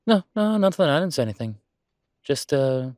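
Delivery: panicked, loud, quick cover-up; flustered denial. Acted. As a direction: blurt it out fast, caught red-handed. Caught out after saying something embarrassing.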